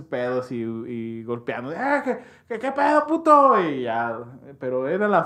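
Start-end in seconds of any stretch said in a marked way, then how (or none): 1.8-3.6 mock drunk challenge. Drunk guys picking a fight.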